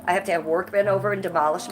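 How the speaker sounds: stuffy blocked-nose voice; congested. Real, not acted. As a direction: talk through a congested nose. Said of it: "You can hear how sick I am".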